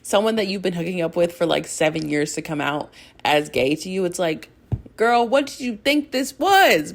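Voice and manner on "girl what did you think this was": high, sassy disbelief; sassy girl aside. Retold or imitated. Fan teasing Ilya about the seven years, sassy. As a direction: ask it with a sassy eye-roll.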